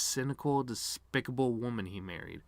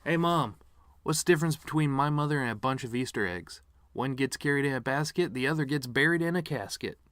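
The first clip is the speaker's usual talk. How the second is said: higher, louder punchy joke delivery; joke setup voice; 4 semitones higher, 3 dB louder than usual. Shown as a demonstration. Showing the piano man what a funny joke sounds like, punchy and loud. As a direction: sell it like a stand-up punchline. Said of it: "Let's try again".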